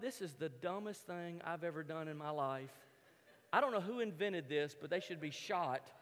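low, subdued grumbling to oneself; fed-up grumble. Retold or imitated. Injured skier to himself after crashing, low fed-up grumble.

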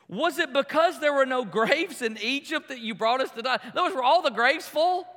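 mildly sarcastic mock question; lightly incredulous retort. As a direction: quote the complainers with a touch of sarcasm. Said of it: "really a sarcastic thing to say".

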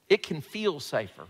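"feel" given the main emphasis; stress on FEEL. Shown as a demonstration. Preacher repeating his point to the congregation, stress on "feel". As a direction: make "feel" the key word. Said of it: "Emphasis on the word feel".

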